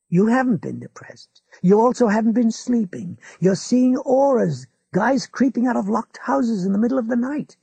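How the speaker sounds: a hint of a smug old man lecturing; McGovern's voice. A narrator's reading. Old neighbour lectures Ralph, a touch smug.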